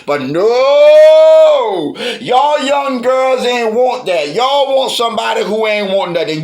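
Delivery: loud, drawn-out scolding no; exasperated outburst. Acted. Auntie scolding Peaches about worthless men, loud exasperated no. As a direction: let the no burst out, then slow down.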